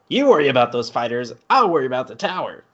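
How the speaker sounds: quick, sassy retort. Retold or imitated. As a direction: toss it off fast and cocky. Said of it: "gets sassy with Wedge".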